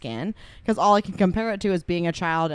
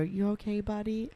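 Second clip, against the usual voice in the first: higher, soft coaxing question; imitating gentle concern; 4 semitones higher, 6 dB quieter than usual. Family asking little cousin, higher soft concern. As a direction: check softly on a fragile little kid. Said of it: "he'd be trying not to cry".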